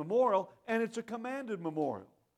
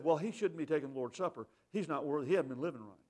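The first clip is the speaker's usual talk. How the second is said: mimicking critics; 3 semitones lower than usual. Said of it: "people who've said".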